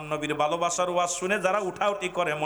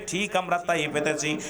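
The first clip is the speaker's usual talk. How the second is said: ordinary delivery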